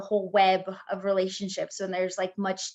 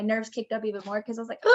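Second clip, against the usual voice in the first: laughing nervously; words broken by nervous giggles; 5 dB quieter, faster than usual. Real, not acted. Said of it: "sorry for all my nervous laughter".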